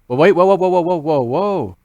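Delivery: loud, startled whoa, whoa, whoa; mock alarm. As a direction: hit the brakes in mock alarm. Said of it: "Slow down".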